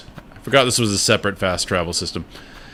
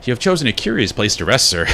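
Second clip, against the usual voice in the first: lightly voiced, politely barbed heroine; understated passive-aggressive courtesy; passive-aggressive Hornet; 4 semitones higher than usual. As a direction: deliver it with measured, formal politeness. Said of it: "She's very passive-aggressive".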